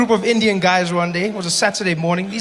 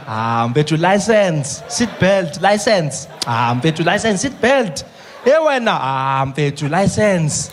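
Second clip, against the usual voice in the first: easygoing South African driver, laughing; relaxed bargaining with the cop; laid-back haggling driver; slower than usual. Retold or imitated.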